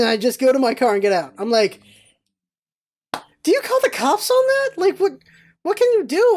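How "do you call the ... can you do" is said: high-pitched, incredulous questioning; baffled disbelief. Retold or imitated. Bystander wondering about calling cops, high baffled disbelief. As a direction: squeak it out, at a loss.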